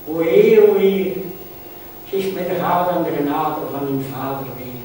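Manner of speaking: declaimed cry to God, falling into chant; mock sobbing plea. Mother prays for father's return, recited pleading. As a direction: call out, then sink into a singsong prayer. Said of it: "roept en snikt".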